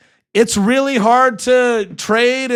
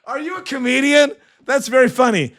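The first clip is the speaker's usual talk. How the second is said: laughing through the words, higher pitched; laughing reply; 4 semitones higher than usual. Real, not acted. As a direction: tease the viewer while still laughing. Laughing at a viewer joke.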